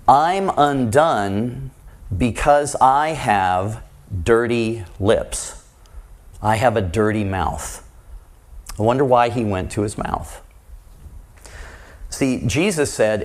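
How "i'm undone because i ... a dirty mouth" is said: crying out. Retold or imitated. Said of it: "He cries out".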